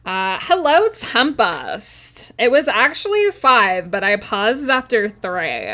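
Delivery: put-on swooping valley girl singsong. Streamer playing up a viewer's redeem, valley girl voice. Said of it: "talk like a valley girl for the next five minutes".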